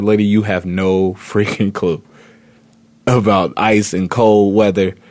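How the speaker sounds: slow, teasing disbelief; mock scolding retort. Host recalling his jab at the lady about ice, slow and teasing. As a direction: drag it out like you can't believe her.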